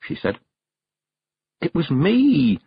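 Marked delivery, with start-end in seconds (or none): 1.6-2.6 slow, high wail of distress. Acted. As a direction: cry it out in anguish. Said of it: "wailed Tiffany".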